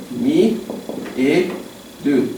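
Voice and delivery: Mi e du said as slow separate syllables. Shown as a demonstration. Teacher splitting a verb into syllables. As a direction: break "Mi, e, du" apart with pauses. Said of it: "spelling out syllables".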